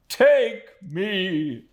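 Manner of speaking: high, loud plea; overwhelmed Micawber. A narrator's reading. Micawber to Copperfield, high and distraught. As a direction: beg to be led away.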